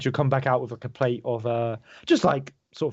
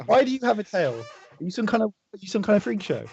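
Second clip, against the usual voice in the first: put-on a higher, cheeky child's voice; nosy kid asking about the tail, higher pitch; boy's voice; 7 semitones higher than usual. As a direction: play the boy poking fun at a stranger. GM voices the boy.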